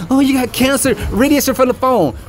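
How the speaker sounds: mock the doctors who say it; lightly mocking doctor voice.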